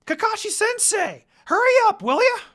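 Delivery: loud, high shout down the street; calling out. Acted. Kid calling sensei to hurry up, shouting. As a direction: yell after the dawdling teacher.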